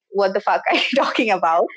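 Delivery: fast, laughing through the words; giggling playful disbelief; laughing mock retort. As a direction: laugh as you throw it back. Mock reply from God, laughing.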